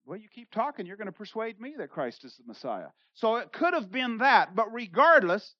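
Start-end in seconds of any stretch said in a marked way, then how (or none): 0.1-2.9 sincere. Retold or imitated. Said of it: "he's sincere".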